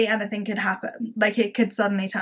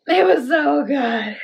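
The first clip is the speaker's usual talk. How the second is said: excited burst; 4 semitones higher, 4 dB louder, slower than usual. Real, not acted. Overwhelmed burst of praise.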